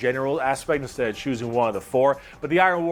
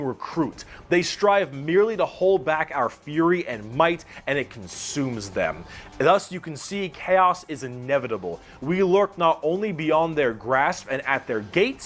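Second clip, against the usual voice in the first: measured, declamatory recital of a proclamation; dramatic quote reading. Acted. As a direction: read it aloud like a zealot's manifesto, lightly dramatised. Continues the faction quote.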